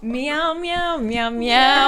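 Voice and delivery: cat meowing. Pretend. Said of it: "we'll be like".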